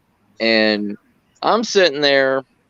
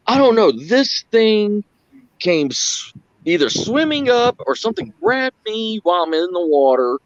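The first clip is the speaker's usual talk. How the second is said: mock rattled Brad; 8 semitones higher than usual. Brad explains again, rattled.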